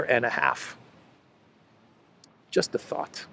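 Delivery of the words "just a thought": breathy whispered "Just a thought" as a sly hint; whispered aside. Real, not acted. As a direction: hush it like a secret hint. Sarcastic aside after rant.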